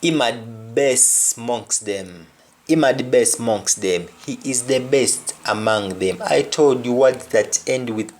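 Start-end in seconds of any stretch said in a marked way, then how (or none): 0.0-4.1 "amongst" said monks, no t; Patois example. Shown as a demonstration. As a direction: read it in Patois. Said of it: "another example".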